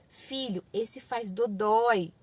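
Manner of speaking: calm parent instead of yelling; explaining parent. Shown as a demonstration. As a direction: gently warn a toddler. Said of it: "você pode explicar".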